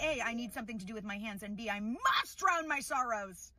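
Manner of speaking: lightly theatrical plea to a waiter; Broadway performance. Retold or imitated. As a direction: play it to the stalls, stretching the finish. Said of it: "give a Broadway performance".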